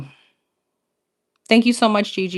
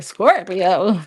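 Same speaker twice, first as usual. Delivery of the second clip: imitating voice crack. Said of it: "Did you hear that? I was like".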